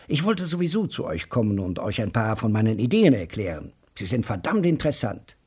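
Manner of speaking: a hint of a keen small-town talker bursting with ideas; mildly excited character voice; eager talker. Joe Welling voiced in reading.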